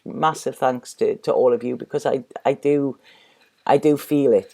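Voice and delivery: emotional, heartfelt. Real, not acted. Reader thanking viewers for their love, emotional and heartfelt. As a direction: thank them tenderly, a little overcome, voice sinking. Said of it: "I'm gonna get emotional here again".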